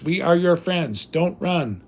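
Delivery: a hint of a movie alien; Mars Attacks alien. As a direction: intone it like a fake-friendly invader. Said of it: "like when Mars attacks, when the robots".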